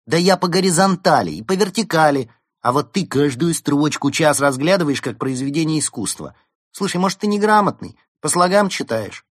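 loud, high-pitched scornful attack; indignant quarrelling. A narrator's reading. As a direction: lay into them, pitched high. Berta quarrels with the penguin.

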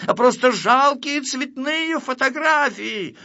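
high, drawn-out jeer; scornful insult. Acted. Grifel insults the photographs in a quarrel, scornful. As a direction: throw the insult out in a high, heated voice.

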